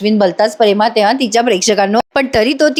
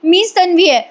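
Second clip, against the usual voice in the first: mock plea climbing higher; imitated pleading; 4 semitones higher than usual. Priya begging the family to trust her, pleading. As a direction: beg to be believed, lightly acted. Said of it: "Priya गयावया करते".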